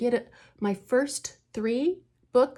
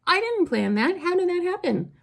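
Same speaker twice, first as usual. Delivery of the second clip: higher, louder delighted disbelief; real happy surprise, pitched up and louder; amazed; 9 semitones higher, 4 dB louder than usual. Real, not acted. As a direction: marvel at it out loud. Marvelling at her own plot.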